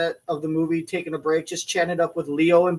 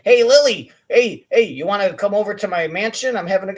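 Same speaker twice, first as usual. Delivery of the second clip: mock Sandler; 3 semitones higher, 5 dB louder than usual. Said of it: "Adam Sandler's like".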